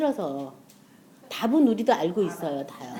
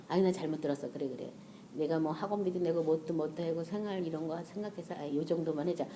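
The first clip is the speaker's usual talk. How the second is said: self-justifying; 5 semitones lower, 10 dB quieter than usual. Retold or imitated. Talking oneself out of the offering.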